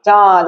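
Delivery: চাঁদ with a nasalised vowel; nasal vowel. Shown as a demonstration. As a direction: sound the vowel of চাঁদ through the nose. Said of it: "নাক দিয়ে উচ্চারণ হচ্ছে". (চাঁদ নাক দিয়ে উচ্চারণ)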